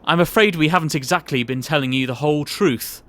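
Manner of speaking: chuckling, patronising boss; jovial boss. Acted. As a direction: laugh him off then lean in to confide. Boss reassures, then confides.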